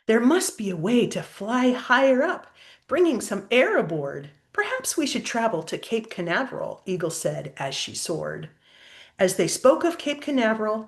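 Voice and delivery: lilting rhyming storybook read; reading to a child. A narrator's reading. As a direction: read the verses aloud to a little one. Reads rhyming picture book aloud.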